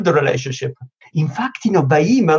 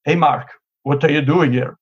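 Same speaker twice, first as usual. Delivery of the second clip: suspicious tone. Shown as a demonstration. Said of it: "Or I can say".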